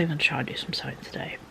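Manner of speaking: whispering. Real, not acted. Aside while planning the day.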